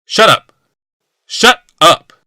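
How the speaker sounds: loud, high repeated shouts; furious shouting. A narrator's reading. Jealous husband silencing Yawmoth, furious shouting. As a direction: scream it twice to stop him. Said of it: "Glaceon demanded".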